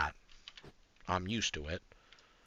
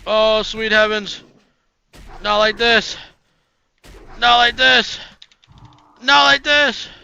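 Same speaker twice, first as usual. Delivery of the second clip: higher and louder with each plea; desperate dread; 6 semitones higher, 9 dB louder, slower than usual. Real, not acted. Streamer to chat as his character dies: rising desperate pleading. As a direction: beg the game not to end it.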